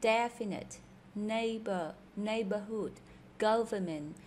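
"definite", "neighbor", "neighborhood", "government" each stressed on the first syllable. Shown as a demonstration. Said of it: "đều là nhấn âm đầu". (nhấn âm đầu trong "definite", "neighbor", "neighborhood", "government")

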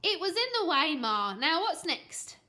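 put-on high, loud cocky kid; impatient child, loud; unrepentant boy. A narrator's reading. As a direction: shrug off blame brashly. Boy brushes off biting mum.

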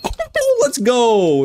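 high, cheering a teammate on; real excitement at a clutch; excited cheer. Real, not acted.

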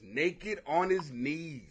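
slow incredulous mutter. Shown as a demonstration. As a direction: savour each word slowly.

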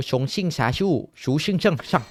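playful fake Teochew Chinese accent, gibberish syllables; mock Teochew Chinese accent. Gamer joking to viewers, light mock Teochew Chinese accent. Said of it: "อันนี้คือสำเนียงจีนแต้จิ๋วนะครับ".

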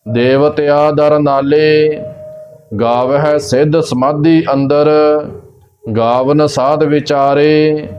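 slow, measured Gurbani recitation; slow devotional reading with long final vowels; scripture recitation. Shown as a demonstration. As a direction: recite line by line, stretching the line endings. Recites scripture between explanations.

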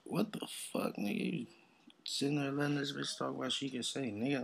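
high, breathy incredulous question; disbelief. Retold or imitated. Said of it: "I was like".

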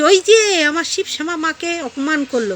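mock complaint. Vlogger mimics the woman claiming an insult, mock complaint. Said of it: "তখন বলছে".

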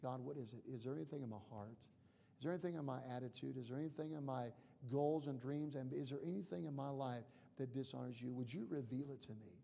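softly asking God; quiet, searching questions in prayer; humble prayer. Acted.

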